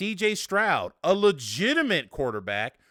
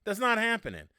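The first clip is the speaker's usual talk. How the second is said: a hint of a wrestling tough guy; Stone Cold Steve Austin catchphrase; 4 semitones higher than usual. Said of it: "Like my man Stone Cold Steve Austin would say".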